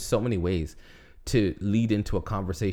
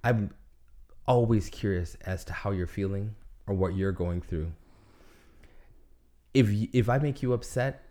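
sweet nothings; 3 semitones lower than usual. Pretend. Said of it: "ask you in a better way".

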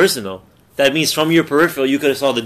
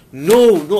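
raised-pitch cry of no; dismayed, higher-pitched protest; retold frustrated outcry; 5 semitones higher than usual. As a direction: blurt it out in frustration.

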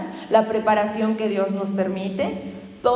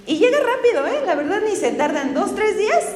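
laughing; 8 semitones higher than usual. Real, not acted. Joking about fast delivery.

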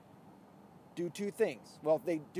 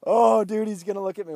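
excited; 6 semitones higher, 17 dB louder than usual. Real, not acted. Just cut off another driver.

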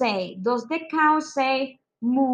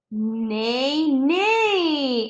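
put-on playful neigh for the kids; neigh, neigh like a pony; a teacher's mock horse whinny. Shown as a demonstration. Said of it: "The horse says".

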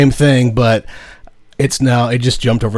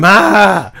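calling out Ma; 7 semitones higher, 4 dB louder than usual. Pretend. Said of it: "I can go".

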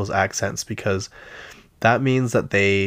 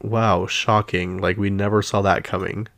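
sarcastic. Retold or imitated. Reader unimpressed by a clickbait article, sarcastic. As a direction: feign shock at the obvious. Mocking an obvious clickbait reveal.

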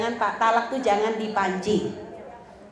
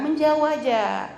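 slow advice; 3 semitones higher, slower than usual. Shown as a demonstration. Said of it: "kalau lagi suami marah".

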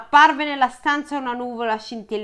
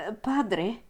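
soft whisper; 7 dB quieter than usual. A narrator's reading. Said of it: "sussurrò".

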